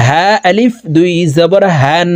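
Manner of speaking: airy "হা" from the start of the throat. Shown as a demonstration. Teacher demonstrates Ha, sounded from the start of the throat. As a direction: breathe "হান" out from the throat's entrance. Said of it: "হলকের শুরু থেকে উচ্চারণ".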